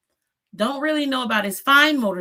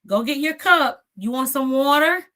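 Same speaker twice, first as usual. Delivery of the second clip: put-on lightly raised child-directed voice; a hint of an aunt coaxing a toddler; slightly higher, prompting a little one; talking to toddler; 5 semitones higher, 4 dB louder than usual. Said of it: "I would say".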